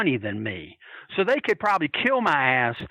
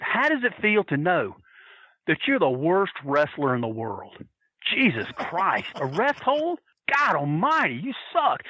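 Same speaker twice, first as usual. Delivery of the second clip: retold taunting.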